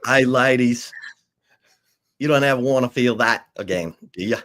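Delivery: light New Zealand accent, imitating a coach; a lightly done New Zealand accent, teasing; Mike White's New Zealand accent. Quoting the coach to his players in a light New Zealand accent. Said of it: "You gotta say it in his New Zealand accent".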